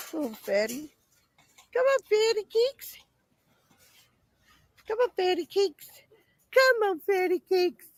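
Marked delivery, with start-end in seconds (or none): 1.7-7.9 higher coaxing call. Real, not acted. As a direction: call the pig with a sing-song lilt. Calling pig repeatedly.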